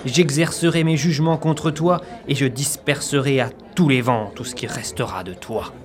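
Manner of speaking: solemn prophetic proclamation; preaching. Acted. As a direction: thunder it like an Old Testament prophet.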